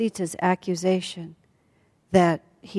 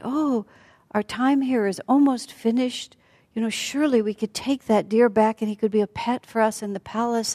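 mildly eager, higher-pitched coaxing; entranced pleading; 4 semitones higher than usual. Acted. Sita to her lord about the deer, entranced pleading. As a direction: coax sweetly with a raised pitch.

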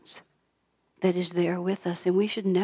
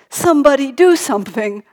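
loud, higher-pitched mock outburst; fussing baby's plea; 6 semitones higher, 9 dB louder than usual. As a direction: voice a fussing baby demanding help. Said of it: "he was just fussing and crying".

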